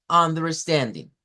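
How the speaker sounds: Understanding slowed, stand on top; stress on stand. Shown as a demonstration. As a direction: rise to stand then fall. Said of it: "la sílaba tónica".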